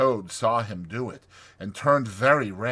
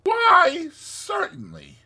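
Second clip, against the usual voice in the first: high, slow good-natured assent; 9 dB louder, slower than usual. A narrator's reading. Rat grants Mole's request, good-natured. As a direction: agree readily, loud burst on the first word. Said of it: "said the good-natured Rat".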